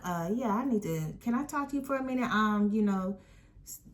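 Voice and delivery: mock sweet, overly polite teacher voice, quick in places; sugary fake politeness, retold; fake nice teacher. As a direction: imitate a teacher putting on a nice act. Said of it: "She trying to act all nice".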